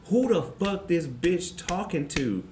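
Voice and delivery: high, slow voice breaking into laughter; laughing mock sister clapback; sister snapping. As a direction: imitate the sweet sister turning hostile. Sister suddenly snaps.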